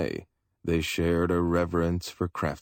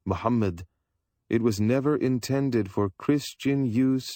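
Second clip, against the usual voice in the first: a hint of a solemn, disdainful visitor; voiced stranger; 6 semitones higher than usual. A narrator's reading. Stranger lecturing the Christians on the rug, lightly voiced. Stranger tells rug's history.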